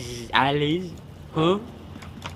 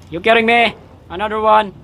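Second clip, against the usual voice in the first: high, loud exasperated disbelief; can't believe it's happening again; shocked disbelief; 9 semitones higher, 7 dB louder than usual. Real, not acted. Sees another enemy appear.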